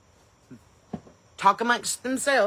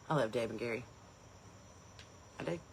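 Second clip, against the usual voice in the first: gasping delight; 9 semitones lower, 14 dB quieter, faster than usual. Real, not acted.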